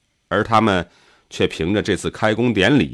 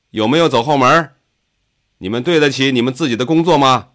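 higher, heated interrogation; indignant, raised-pitch challenge; accusing questions; 4 semitones higher, 4 dB louder than usual. A narrator's reading. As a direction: shame them with pointed questions. Farmer angrily questions the crowd.

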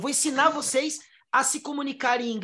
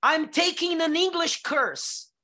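mock student; 5 semitones higher, slower than usual. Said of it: "você fala assim pra alguém?".

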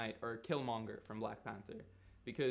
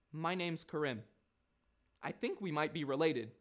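Karim; 3 semitones higher than usual. Acted. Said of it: "this posh little voice, man".

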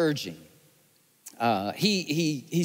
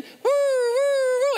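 higher, louder siren wail, woo woo; louder siren imitation; 4 dB louder than usual. Shown as a demonstration. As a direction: redo the siren bigger. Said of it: "do it again".

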